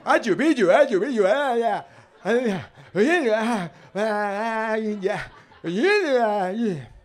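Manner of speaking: loud, high parody of Murcian speech; exaggerated Murcian yowl with no consonants; mock Murcian, vowels only. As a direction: wail a caricature Murcian accent in vowels. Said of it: "¿Solo con vocales o?".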